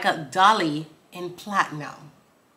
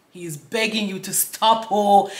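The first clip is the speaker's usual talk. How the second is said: African-sounding accent; 2 semitones higher, slower than usual. Real, not acted. Explaining a lyric to viewers, slipping into an African accent. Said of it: "talking like an African person".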